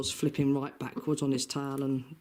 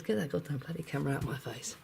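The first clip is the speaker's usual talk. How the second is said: grumpy chicken voice; 4 dB quieter, faster than usual. Retold or imitated. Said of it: "He says".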